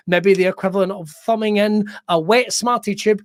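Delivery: usual speaking voice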